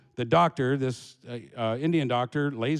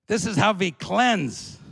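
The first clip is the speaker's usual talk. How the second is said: put-on higher, slow German-accented line; lightly voiced German woman; 4 semitones higher, 3 dB louder, slower than usual. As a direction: announce it slowly with a German accent. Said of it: "big German woman in a white".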